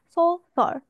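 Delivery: 소설 with a rounded 소 and an open-mouthed 설; 소설, opening the mouth wide on 설; open second vowel. Shown as a demonstration. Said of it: "第二个字是嘴巴张开的哦".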